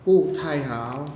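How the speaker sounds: Pu tai hao, each syllable said clearly with Mandarin tones; Mandarin demo. Shown as a demonstration. Teacher modeling Pu tai hao for students. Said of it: "How-nya yang seperti yang tadi".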